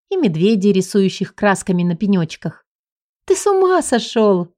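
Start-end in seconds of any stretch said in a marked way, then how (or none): 3.3-4.5 higher, delighted gasp of disbelief; gasping surprise. Acted. The heroine to her husband, a delighted surprised gasp. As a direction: gasp it out happily. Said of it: "ахнула я".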